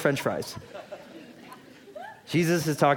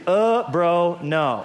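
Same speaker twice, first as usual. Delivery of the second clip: mock bro dismissal, laughing; 4 semitones higher, 5 dB louder, much slower than usual. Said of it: "that's in the original Greek".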